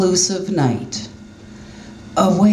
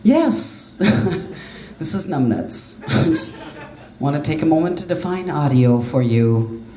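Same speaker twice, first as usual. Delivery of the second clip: mock voicemail voice; 3 semitones lower, slower than usual. Comedian parodying her own silly voicemail message. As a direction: sound like a dopey voicemail.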